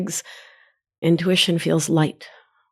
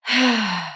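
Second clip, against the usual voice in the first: weary sigh; 3 semitones higher than usual. Retold or imitated. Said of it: "It tells you".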